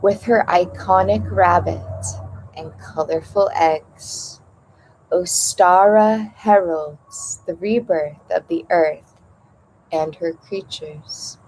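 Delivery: measured read-aloud in short phrases with pauses; meditation reading. Acted. Host reading the opening passage on rebirth to listeners, measured meditation reading.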